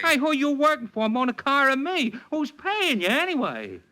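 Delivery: high-pitched angry demands; furious client shouting down the phone; indignant outburst. Acted. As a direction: fire the questions at him, outraged. Leo furious at detective on phone.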